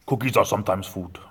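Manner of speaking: a hint of the monster; lightly voiced muppet lesson; Cookie Monster voice. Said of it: "That's what he tells the kids now".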